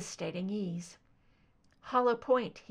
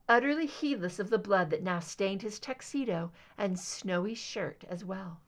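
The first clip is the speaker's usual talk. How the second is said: ordinary delivery, nothing marked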